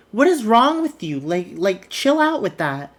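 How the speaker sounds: a hammed-up what is wrong with you; mock exasperation. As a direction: act out an exasperated scold. Chad scolding Biggie.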